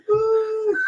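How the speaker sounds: loud, high cheer; cheering woo. Real, not acted. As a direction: whoop it out. Cheering shout.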